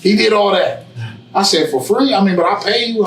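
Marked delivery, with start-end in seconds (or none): 1.7-3.1 surprised. Retold or imitated. Surprised at barber's offer.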